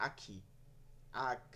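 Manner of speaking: "আখি", "আখ" with an everyday aspirated k; plain Bengali kha. Shown as a demonstration. Teacher shows the Bengali sound to avoid, plain aspirated kha. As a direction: say "আখ" with a stopped kh, no scraping. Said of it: "এরকম না".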